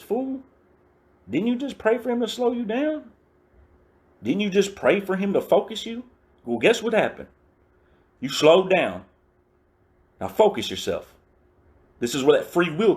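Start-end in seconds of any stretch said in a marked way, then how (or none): 0.0-11.1 high, squeaky put-on voice for the roommate; mock his roommate's voice, pitched way up; roommate's scolding. Roommate scolding the speaker about his prayer, high squeaky mock voice. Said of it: "My roommate looks at me and he says".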